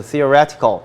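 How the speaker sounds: theoretical with the weight on -ret-; stress on third syllable. Shown as a demonstration. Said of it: "강세 여기". (theoretical의 ret에 강세)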